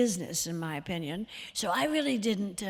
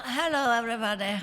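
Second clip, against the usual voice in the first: higher-pitched attempt at a film star's greeting; Catherine; 3 semitones higher, faster than usual. Shown as a demonstration. Actress unsure whose impression she is doing, tentative star impression. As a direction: try out a celebrity greeting, pitched up. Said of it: "this is Catherine, or who is this?".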